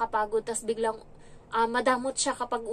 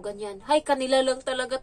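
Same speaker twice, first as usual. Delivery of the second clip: ordinary delivery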